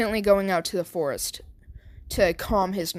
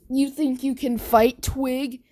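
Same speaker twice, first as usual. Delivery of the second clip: mocking bully taunt; 3 semitones higher, 4 dB louder, slower than usual. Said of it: "And Bakugo's like".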